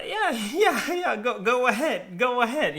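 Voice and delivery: nervous laugh through the yeahs; laughing go ahead. Retold or imitated. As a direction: awkwardly laugh her off. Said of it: "I'm like".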